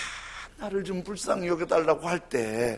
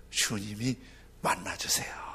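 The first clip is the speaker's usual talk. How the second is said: whisper; 7 semitones lower, 8 dB quieter than usual. Real, not acted. 속삭임.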